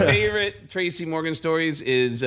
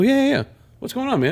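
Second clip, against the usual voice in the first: mock eager; 11 semitones higher, faster than usual. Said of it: "I go".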